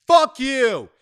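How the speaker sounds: yelling at the mail thief, loud and high; furious outburst; shouting at the thief to get out of the mail; angry shout. Real, not acted.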